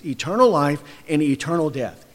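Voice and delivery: usual speaking voice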